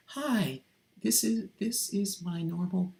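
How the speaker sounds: high, feminine practice voice. Shown as a demonstration. Practicing a normal voice on camera, feminine and high. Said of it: "slip into their feminine voice".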